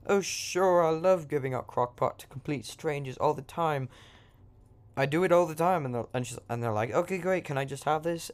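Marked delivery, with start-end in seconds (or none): 0.1-5.8 high British witch voice; British accent. Acted. Witch hands out crock pot to strangers, British accent. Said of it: "And I'm being British again". 6.9-8.3 put-on high-pitched British accent. Travelers ask witch for crock pot, British accent. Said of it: "And I'm being British again".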